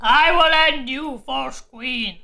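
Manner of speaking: slow, low menacing demon threat; lightly voiced fire demon, slow and dark; booming demon voice. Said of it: "a booming voice calls out".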